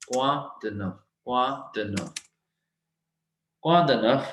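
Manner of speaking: quoi de neuf said kwa duh nuhf, f sounded; French quoi de neuf. Shown as a demonstration. Teacher drilling quoi de neuf for students. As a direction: model quoi de neuf with a clear final f. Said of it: "हमने एफ pronounce करना है".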